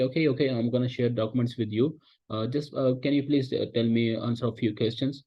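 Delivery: slow, easy caller voice deflecting; slow demo call line. Shown as a demonstration. Teacher demos a slow deflecting sales call. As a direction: stall them calmly and slowly. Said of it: "तब भी आप बात घुमा दो कि".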